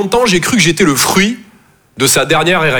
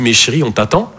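put-on a lower hushed girlfriend, a bit fed up; girlfriend on phone; 8 semitones lower than usual. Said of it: "elle me dit".

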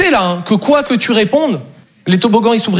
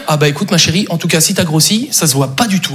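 mock reassuring; 5 semitones lower than usual. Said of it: "une petite technique pour plus perdre mes points".

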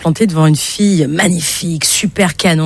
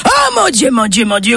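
yelling; 5 semitones higher than usual. Acted. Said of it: "de crier".

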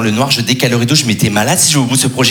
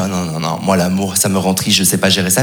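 mopey heartbroken; 7 semitones lower than usual. Retold or imitated. Self quoted as heartbroken.

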